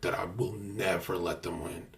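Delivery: hushed whisper. Real, not acted. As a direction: whisper it like a secret. Confiding aside.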